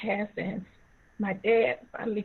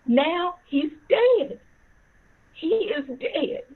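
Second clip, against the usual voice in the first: slow, raised, emphatic grief; anguished anger; 6 semitones higher, slower than usual. Retold or imitated. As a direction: drive each word home slowly in pained anger. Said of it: "he punched the wall and he said".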